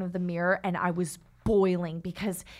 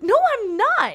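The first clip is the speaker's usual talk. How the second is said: a mock protest, higher and louder; imitating her own indignant denial; half-playful indignant no; retold indignant protest; 14 semitones higher, 7 dB louder, slower than usual.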